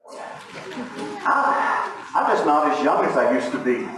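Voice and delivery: lightly voiced tired old man; frail breathless old person. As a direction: puff out the words like a weary old man. Video, not as young anymore.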